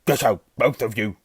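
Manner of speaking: loud, rough croaked order; croaking. A narrator's reading. Uncle orders both boys out, croaking. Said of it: "croaked Uncle Vernon".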